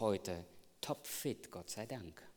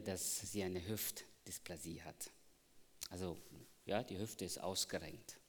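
whisper; 6 dB quieter than usual. Real, not acted. Confides diagnosis, unvoiced.

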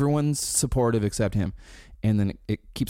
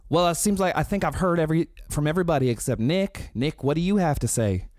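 higher, quicker, earnest prompting; earnest invitation; 6 semitones higher than usual. Retold or imitated. Brian asking Nick for his view, earnest and higher. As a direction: politely put the question to Nick. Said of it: "And then Brian goes".

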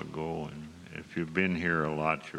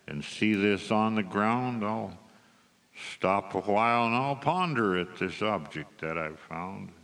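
rhythmic, emphatic poem recital; cowboy poetry recital. Acted. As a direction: perform it like a cowboy poet on stage.

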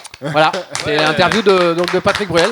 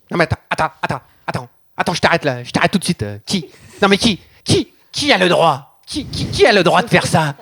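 un chanteur agacé. Acted. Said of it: "me mettre dans la peau du personnage".

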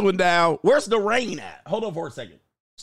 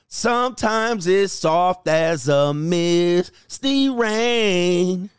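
slow reading; much slower than usual. Acted. Reads lyric-like caption.

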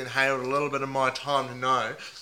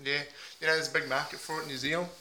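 a lightly put-on Aussie bloke accent, mate on every line; 3 dB louder than usual. Host playing a heartbroken meth packer in a mild put-on Aussie accent. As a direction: ham up the ocker Aussie, leaning on mate. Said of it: "put on a few different voices".

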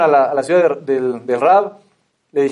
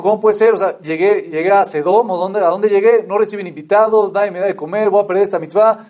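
higher, anguished disbelief, pleading to the air; a retold man at his wits' end, raised pitch; desperate outburst; 4 semitones higher than usual. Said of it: "se desesperó y dijo". (desesperado, con la voz más aguda)

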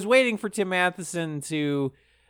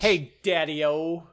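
fifties greaser; slower than usual. Acted. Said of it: "talking like a fifties greaser".

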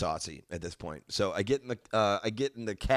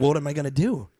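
panicked; 6 semitones higher, 7 dB louder than usual. Retold or imitated. Panicked self talking to subconscious.

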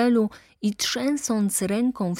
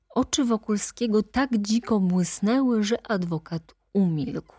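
ordinary talk, nothing marked

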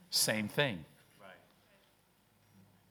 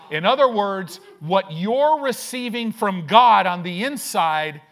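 preaching loud; 4 semitones higher, 8 dB louder than usual. Acted. Preaching climax.

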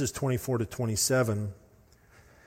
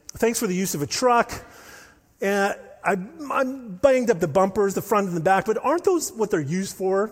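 a light, lively mock Scottish accent, pitched higher; 5 semitones higher, 3 dB louder than usual. Johnny returning the dented truck to Jared, in a mock Scottish accent. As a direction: play Johnny as a breezy Scot shrugging off the dents in a Scottish accent. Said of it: "Think of a, a accent".

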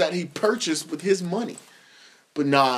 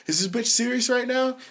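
high, softened disbelieving question; mock incredulous; 6 semitones higher, 3 dB quieter than usual. Friends to him under the table, mock incredulous aside.

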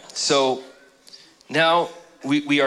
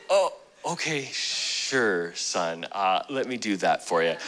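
easy, softer and lower, indulgent; gentle fatherly God; 4 semitones lower, 5 dB quieter than usual. Pretend. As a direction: let a kind father give in, softly. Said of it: "He's like".

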